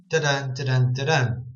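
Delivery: "da-dun" with weak "da", strong "dun"; stress on second beat. Shown as a demonstration. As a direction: tap out "da-dun", leaning on the second syllable. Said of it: "the emphasis is, is on day".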